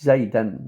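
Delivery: "زيدا" said low as Zaydan, ending in -an; correct -an ending. Shown as a demonstration. Teacher explains the ending inna requires, -an on "زيدا". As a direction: end "زيدا" on -an. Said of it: "not زيد".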